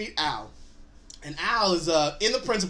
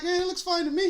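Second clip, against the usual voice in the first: friend's voice; 12 semitones higher than usual. Retold or imitated. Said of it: "So he's like".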